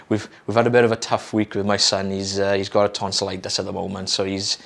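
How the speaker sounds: slightly hoarse, tired croak; a bit croaky from no sleep. Real, not acted. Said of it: "excuse me if I'm a bit croaky".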